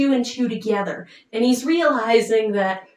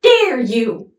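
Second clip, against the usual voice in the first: louder, outraged rebuke; indignant boy; 4 dB louder than usual. Retold or imitated. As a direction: scold her for asking him to kill his father. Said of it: "but he's like".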